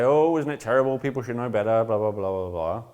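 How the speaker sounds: hammed-up lament sliding down into blah-blahs; mock complaining. Mimicking useless complaining, then dismissing it.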